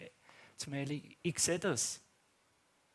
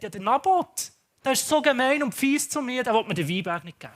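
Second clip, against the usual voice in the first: higher, louder mock whining; the king complaining to his wife, hammed-up whine; whiny complaint; 5 semitones higher, 4 dB louder than usual. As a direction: tattle like a hurt child.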